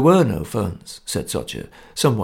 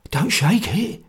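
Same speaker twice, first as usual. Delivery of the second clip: hoarse whisper; 7 semitones higher, slower than usual. A narrator's reading. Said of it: "he whispered hoarsely".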